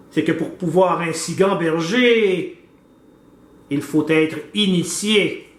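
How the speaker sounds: measured, declaimed verse with clear pauses; formal poetic reading; poem recitation. Acted. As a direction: recite it line by line, drawing out phrase endings.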